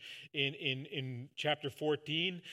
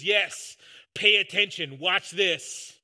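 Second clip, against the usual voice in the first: loud and forceful, pitched up; emphatic; 8 dB louder, slower than usual. Pretend. Jesus answering Pilate if he had been emphatic, loud and forceful. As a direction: bark it out like a man asserting himself. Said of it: "he could have been emphatic".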